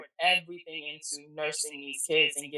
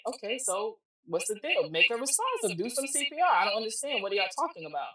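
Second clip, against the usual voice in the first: higher-pitched, baffled demand for action; retold urgent disbelief; 5 semitones higher than usual. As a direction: demand answers, refusing to accept the news. Acts out disbelieving reaction to emergency.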